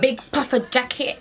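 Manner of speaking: put-on New Yorker on the edge of laughing; mock New York accent. Vlogger quoting TikTok to a friend, mock New York accent. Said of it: "I like New York accent".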